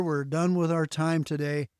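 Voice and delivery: ordinary talk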